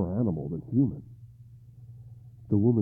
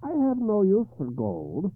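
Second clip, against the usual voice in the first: high, louder, cold hag; 12 semitones higher, 7 dB louder than usual. Acted. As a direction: refuse him icily. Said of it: "she said coldly".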